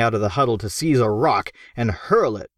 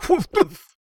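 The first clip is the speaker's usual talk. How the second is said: creature woof. Acted. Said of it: "which said".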